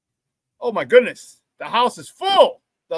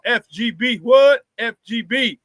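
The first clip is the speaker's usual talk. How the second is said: call and response; 2 semitones higher, slower than usual. Real, not acted. Host chanting the show slogan to the chat, call and response. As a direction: hype the crowd with a chant.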